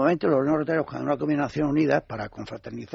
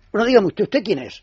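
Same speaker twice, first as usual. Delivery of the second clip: mock indignant neighbour; 7 semitones higher, 8 dB louder than usual. Retold neighbour finally confronts him.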